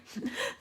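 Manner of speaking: brief breathy laugh; dismissive chuckle. Real, not acted. Vlogger laughing off a charity challenge invitation, short chuckle. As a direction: chuckle at the very idea.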